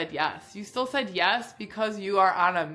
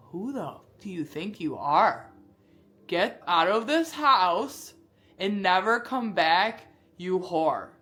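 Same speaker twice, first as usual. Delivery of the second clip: slow, drawn-out threat in a retold father's fury; lightly voiced enraged father; mock furious yell; slower than usual. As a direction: imitate a dad throwing his daughter out. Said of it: "as aggressive as you can think of".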